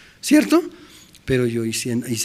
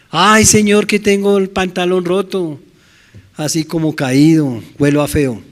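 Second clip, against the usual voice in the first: loud desperate pleading; 3 semitones higher, 4 dB louder than usual. Acted. Sinner pleading to God.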